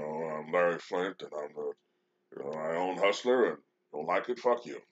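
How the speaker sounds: casual mock boast in another man's voice; offhand impression of a brash publisher; Larry Flynt. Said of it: "when you hear Larry Flynt talk".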